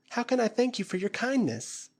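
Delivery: put-on high, earnest plea of a grateful girl; pleading young woman. Flora kneeling before the ape-man, high pleading voice.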